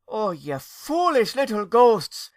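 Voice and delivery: high, loud, slow wail; distraught aunt wailing high and loud. Acted. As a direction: wail at the foolish little ghosts like a grieving aunt. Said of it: "Lady Esther wailed".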